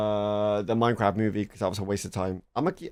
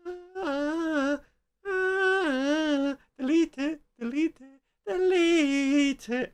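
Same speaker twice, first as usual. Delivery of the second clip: mock panic; 12 semitones higher, much slower than usual. Panicked mock urge to delete.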